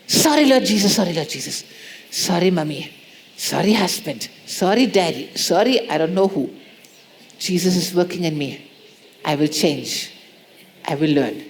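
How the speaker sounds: a gentle, contrite run of sorries; humble apologies. Pretend. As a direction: apologise meekly to everyone around. Acted string of apologies.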